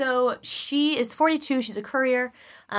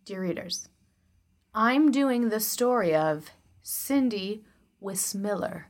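vocal fry; slower than usual. Acted. Host opening her true-crime story, in vocal fry. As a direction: drag it out in a creaky fry. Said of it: "I did use vocal fry for that".

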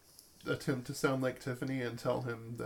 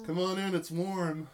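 slow, higher come-hither call; calling from the bathtub; 5 semitones higher than usual. Acted. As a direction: draw it out, coaxing from the tub. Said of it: "you hear Brad yell".

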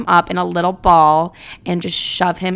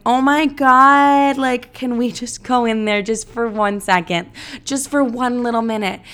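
high, drawn-out sweet begging; butter him up to get into the booth; drunk pleading; 4 semitones higher than usual. Retold or imitated. Tipsy girl sweetly begging the DJ to let her in.

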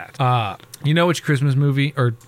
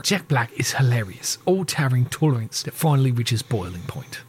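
deliberate British guy. Retold or imitated. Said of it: "That's just British guy".

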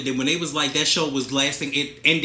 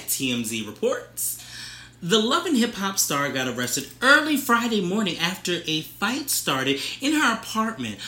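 news reporter voice. Pretend. Co-host reading gossip story to partner, news reporter voice. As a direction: read it like a tabloid news anchor. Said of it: "that's my news reporter voice".

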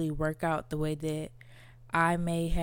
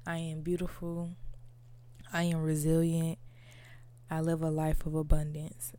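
reciting affirmation. Shown as a demonstration. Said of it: "I state my affirmation".

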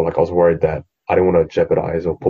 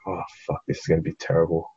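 muttered dread; 7 dB quieter, faster than usual. Retold or imitated. Dread while the class begins.

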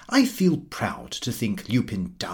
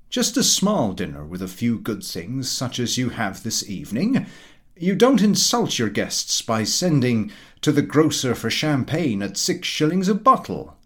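pompous Mister Huttle. Acted. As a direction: lecture the table like a self-satisfied know-all. Huttle praises the dinner.

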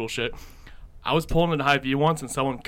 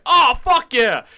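higher, louder, slow excited whoop; mock thrilled cheer; 10 semitones higher, 7 dB louder, slower than usual. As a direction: cheer like a kid about the movie. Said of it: "I'm like".

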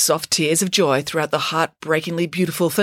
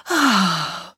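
contented sigh; 3 semitones higher than usual. Acted. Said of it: "sighed with contentment".

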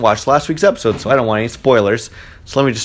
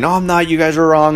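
raised-pitch mock outburst; mild mock tantrum, higher; imitating freaking out; 4 semitones higher than usual. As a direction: parody his upset denial. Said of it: "the guy's freaking out saying".

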